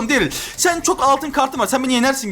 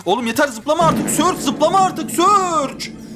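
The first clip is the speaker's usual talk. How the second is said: exasperated plea; 4 semitones higher, slower than usual. Real, not acted. Scolds jumping opponent in game.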